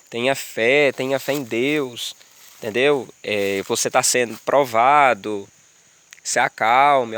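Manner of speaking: slow, calm, reassuring retold voice; comforting voice. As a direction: gently soothe someone who is going through hard times. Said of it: "uma voz de consolo".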